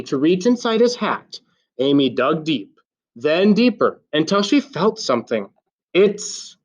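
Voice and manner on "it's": excited shout. A narrator's reading. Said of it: "Amy shouted".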